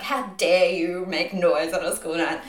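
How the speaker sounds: retold angry outrage. Messaging noisy housemates on a school night, mock outrage. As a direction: act out an indignant telling-off, each word drawn out. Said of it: "I was really angry and, like, aggressive".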